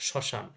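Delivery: শ্মশান said shõ-shan, no m sound; nasalised first syllable. Shown as a demonstration. Teacher shows students silent ম, শ্মশান as shõ-shan. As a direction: nasalise the opening vowel of শ্মশান. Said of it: "চন্দ্রবিন্দু দেবো".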